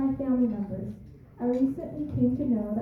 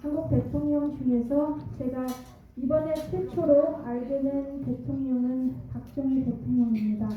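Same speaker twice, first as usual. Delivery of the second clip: Korean American accent; faster than usual. Real, not acted. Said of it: "저의 한국말이 좀, 아, 서툴지만".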